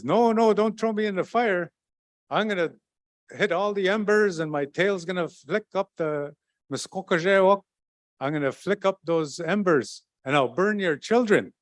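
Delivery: high, mock-frightened trickster pleading; a sly little animal faking panic so they won't throw him in. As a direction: play the trickster begging, hamming up the fear. Mikinak pleads with his captors.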